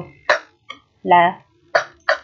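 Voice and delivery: "k" said as a bare consonant sound. Shown as a demonstration. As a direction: sound out "k" by itself, not as a letter name. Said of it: "chữ K".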